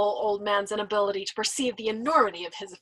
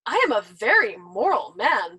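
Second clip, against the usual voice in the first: satiric seriousness; 5 dB louder than usual. Acted. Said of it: "assured him with satiric seriousness".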